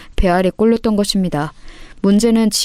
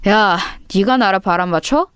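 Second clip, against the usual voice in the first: menacing delinquent senior; threatening bully. Acted. Bully confronting the girl who fled, threatening. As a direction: intimidate someone who stood you up. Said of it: "희진이를 협박했습니다".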